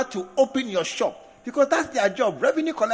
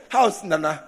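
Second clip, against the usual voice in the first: mock casual greeting; 5 semitones lower than usual. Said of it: "you don't just say".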